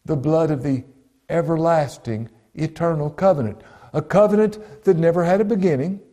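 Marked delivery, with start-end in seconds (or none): 1.3-2.3 "everlasting" spoken as the key word; stress on EVERLASTING. Shown as a demonstration. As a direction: give "everlasting" its full weight. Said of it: "Don't miss that word".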